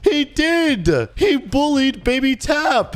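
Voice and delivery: insistent. Acted. Dad insisting to the other father, indignant protest. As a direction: push back hard, indignant.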